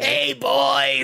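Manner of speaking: lightly voiced drag queen greeting; a hint of a sassy drag diva. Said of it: "my drag queen name".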